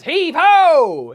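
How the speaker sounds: high, loud pirate-style command; mom's order. Acted. Mom ordering a child off Nintendo to dishes, high shout. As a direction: shout it to get someone working. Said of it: "if she says".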